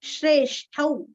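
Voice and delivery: श्रेष्ठौ with a full औ; clear au ending. Shown as a demonstration. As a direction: stretch the final औ of श्रेष्ठौ. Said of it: "ष्ठा के ऊपर की दो मात्रा".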